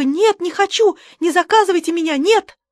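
high, loud terrified scream of no; full-voiced yell. A narrator's reading. Old woman to waiter, screaming in panic. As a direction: bellow it with all the old woman's breath.

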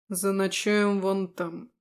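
curt order to camp; demon voice. Acted.

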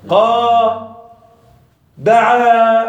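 قا and دعا with a long open final vowel; long alif demo. Shown as a demonstration. Teacher demonstrating smooth alif vowels. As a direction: stretch the ا in دعا. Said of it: "هذه الألف".

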